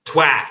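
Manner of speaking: "twat" with an open ah vowel; North American "twat". Shown as a demonstration. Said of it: "when a North American says".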